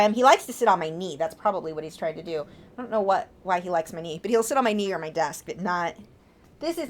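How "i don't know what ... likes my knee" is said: ordinary delivery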